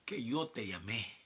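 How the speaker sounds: slow, solemn divine voice, lightly voiced; a hint of a solemn God, slow; voice of the Lord. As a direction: speak as God reminding him of his calling. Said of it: "Y me dijo".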